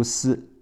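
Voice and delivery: letter S sounded as a hissed "斯". Shown as a demonstration. Teacher sounding out the S in stone, hissed "斯". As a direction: say "斯" as the bare s sound. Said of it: "字母S读斯".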